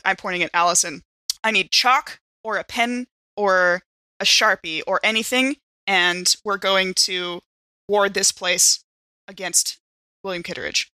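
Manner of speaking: normal talking voice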